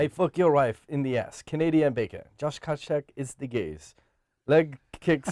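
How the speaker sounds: rough stab at an accented fighter's voice. Shown as a demonstration. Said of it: "in your best G S P voice".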